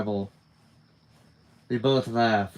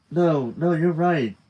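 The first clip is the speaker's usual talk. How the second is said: eager; 6 semitones higher, 6 dB louder, slower than usual. Acted. Eager reassurance.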